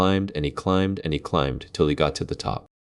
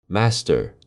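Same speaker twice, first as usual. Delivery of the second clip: second cry, less loud; 3 semitones higher than usual. Acted. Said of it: "the harp cried out".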